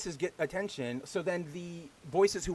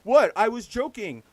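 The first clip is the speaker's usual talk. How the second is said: high, loud mock protest; pretend innocence; 6 semitones higher, 9 dB louder, slower than usual. Mimicking inconsiderate people pretending they were joking, mock indignant. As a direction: play the offended joker, overdone. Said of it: "people just being inconsiderate and pretending".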